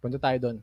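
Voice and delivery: "Punta tayo doon" falling on "doon" like an order; downward command tune. Shown as a demonstration. Coach showing a command: falling downward tune. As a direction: drop the pitch at the end, commanding. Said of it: "Downward. It's a command".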